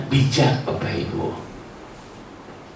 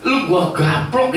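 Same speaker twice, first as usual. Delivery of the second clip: mock threat. Parent threatening lazy child.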